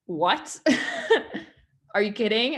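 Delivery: friend brushing off the praise in laughing disbelief. Retold or imitated. Kelsey laughing off a compliment, mock astonished. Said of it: "Kelsey was like".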